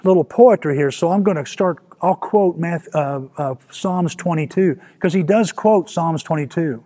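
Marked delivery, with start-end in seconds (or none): 0.0-4.8 offhand mock suggestion, a bit higher and louder; mock casual. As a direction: toss it off like a breezy idea. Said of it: "It's not like Jesus is saying".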